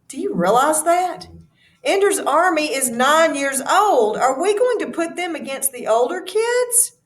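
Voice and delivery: upset Graff. Acted. Graff protests to Anderson.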